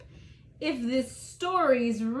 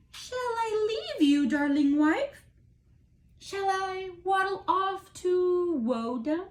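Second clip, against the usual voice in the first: higher, wounded turtle asking to leave; hurt turtle; 4 semitones higher than usual. Acted. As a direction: plead with hurt pride, pitched up. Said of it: "Said the turtle to the bagpipe".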